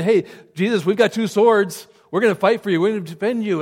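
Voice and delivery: eager boast. Retold or imitated. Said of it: "the disciples said".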